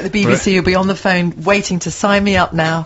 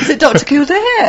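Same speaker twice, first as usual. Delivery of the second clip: laughing; 8 semitones higher than usual. Real, not acted. Laughing back at co-host.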